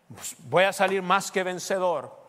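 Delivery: confident shout. Acted. Pastor voicing a confident believer.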